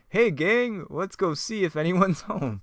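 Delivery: rally the group in a hammed-up voice; Fred. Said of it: "back to Fred and Shaggy".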